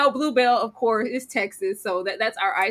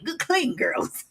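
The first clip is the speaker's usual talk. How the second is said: slow, drawn-out mock of "Good clean girls"; mocking drawl; 4 semitones higher, 4 dB quieter, much slower than usual. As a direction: stretch "Good clean girls" out slowly, teasing. Mocking the guy's phrase.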